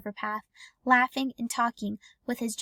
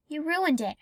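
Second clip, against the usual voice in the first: irritated; 4 semitones higher than usual. Acted. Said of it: "in an irritated voice".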